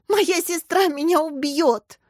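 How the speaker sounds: high, loud, drawn-out wail; sobbing. A narrator's reading. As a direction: wail it as if bursting into tears. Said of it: "Варя разрыдалась". (громко, навзрыд)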